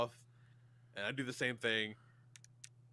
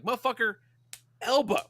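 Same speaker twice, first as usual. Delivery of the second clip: higher, louder, a retold half-asleep outburst; mock angry snap; 11 semitones higher, 7 dB louder than usual. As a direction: spit out a sleepy wife's fury. Wife angrily slapping her elbow.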